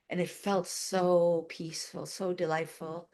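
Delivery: slow, softened, savoring delivery; peaceful. Real, not acted. Recalling a blissful wave of energy, peaceful and slow. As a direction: ease into it slowly and softly.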